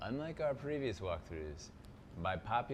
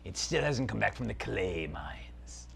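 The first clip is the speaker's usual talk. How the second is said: dark lord; 3 semitones lower than usual. Acted. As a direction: savour every word like an evil prince. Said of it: "Zaltar, Prince of Phantasm".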